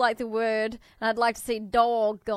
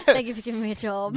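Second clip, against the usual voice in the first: mock gratitude; faster than usual. Joking along, mock grateful.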